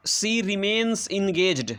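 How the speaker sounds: very slow, each word spaced out for the class; slow dictation. Shown as a demonstration. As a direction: read it out word by word as if dictating to pupils. Teacher dictating example sentence. (बहुत धीरे, शब्द-शब्द बोलकर लिखवाना)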